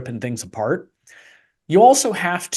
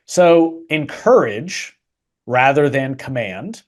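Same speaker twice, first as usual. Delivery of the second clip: sarcastic; slower than usual. Real, not acted. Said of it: "I'm being quite sarcastic".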